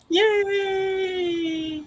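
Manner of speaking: excited cheer. Real, not acted. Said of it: "That's exciting".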